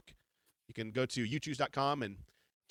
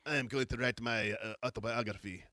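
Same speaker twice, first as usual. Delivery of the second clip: mustache twirling villain. Retold or imitated. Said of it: "he's, like, twirling his mustache".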